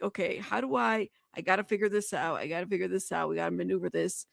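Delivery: soft, low muttered planning to herself; thinking out loud. Retold or imitated. Streamer plans to herself aloud, quiet and soft. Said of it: "I'm just thinking out loud".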